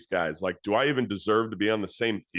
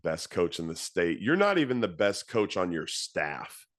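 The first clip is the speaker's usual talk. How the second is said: scoffing inner voice; 4 semitones lower than usual. Retold or imitated. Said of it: "this little voice in the back of my mind going".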